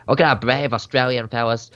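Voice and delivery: put-on a mild, joking Australian accent. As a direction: put on a light Aussie newsreel accent for "Look at our brave Australian fellas". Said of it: "I have to put on an accent".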